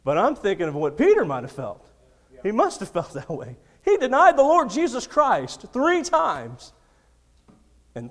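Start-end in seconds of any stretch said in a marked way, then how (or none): 3.8-6.7 preaching emphasis. Real, not acted.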